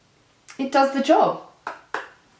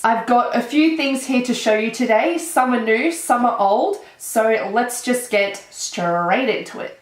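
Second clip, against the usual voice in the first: blocked nose from a cold; talking through a stuffy nose; nasally voice; 2 semitones higher than usual. Real, not acted. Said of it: "Excuse the, um, nasally voice".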